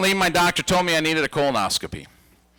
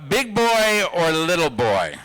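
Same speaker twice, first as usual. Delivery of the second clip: put-on kid reciting the rule; slower than usual. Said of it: "I have to go".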